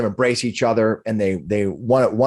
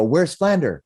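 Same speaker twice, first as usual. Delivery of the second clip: high, eager asking; rushing up looking for a friend; eager question, pitched up; 6 semitones higher than usual. Acted. Humans eagerly seek Flander.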